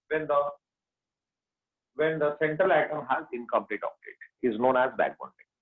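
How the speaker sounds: very slow, word by word dictation. Shown as a demonstration. Teacher to students, dictating the definition slowly. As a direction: spell it out slowly so students can write.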